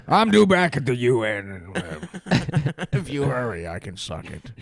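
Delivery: gruff, laughing Nick Nolte; Nick Nolte impression. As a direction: keep the Nolte growl, cracking up. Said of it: "Nick Nolte being like".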